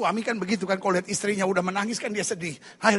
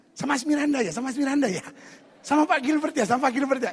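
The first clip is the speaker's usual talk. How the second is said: light, higher-pitched teasing imitation; mock-coy questioning; flattered guessing; 4 semitones higher than usual. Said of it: "Dia udah G R aja".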